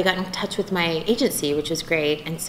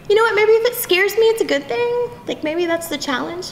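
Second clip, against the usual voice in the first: upbeat realization; 11 semitones higher than usual. Retold or imitated. Voices her braver self reconsidering.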